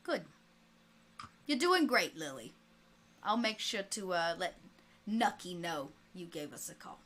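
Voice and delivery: lightly voiced mob boss on the phone; a hint of an old-time gangster; Capone. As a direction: play a gangster boss taking a call. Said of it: "And the voice of Capone comes on".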